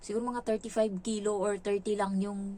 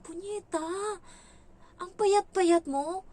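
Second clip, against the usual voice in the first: exasperated cursing; 9 semitones higher, slower than usual. Retold or imitated. Venting about the skinny employer.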